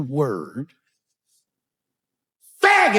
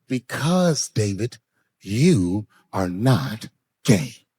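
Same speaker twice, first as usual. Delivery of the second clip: patronizing lady; 7 semitones lower, much slower than usual. Retold or imitated. Lady's slow patronizing answer.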